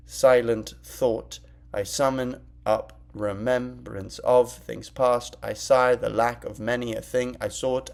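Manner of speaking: slow, measured sonnet reading; poem recital. Shown as a demonstration. Teacher reading the sonnet slowly to the class, measured. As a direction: read each line slowly, weighing every word. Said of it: "well, the first time".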